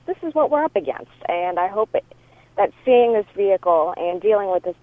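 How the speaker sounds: voicemail over a phone line; phone recording; answering machine message. Real, not acted.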